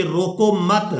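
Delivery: روکو مت said together, then a stop after مت; pause after mat. Shown as a demonstration. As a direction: pause on مت before moving on. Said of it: "اسی محاورے کو اس طرح سے پڑھیں".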